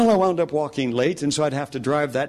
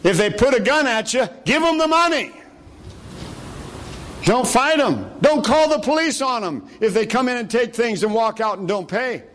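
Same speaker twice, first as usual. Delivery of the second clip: much higher, light voice for a frightened cashier; cashier's voice; 10 semitones higher than usual. Retold or imitated. Preacher voicing the cashier behind the glass, high and light. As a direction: play the nervous store clerk.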